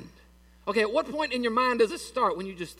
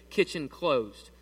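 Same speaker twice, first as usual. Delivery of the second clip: slow, clipped "Kitchen closed" with no S on kitchen; curt kitchen closed; 5 semitones lower, much slower than usual. Retold or imitated. Grandmother shutting the kitchen for the night, slow and curt. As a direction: grandmother says "Kitchen" with no S, slowly and final. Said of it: "She didn't say kitchens".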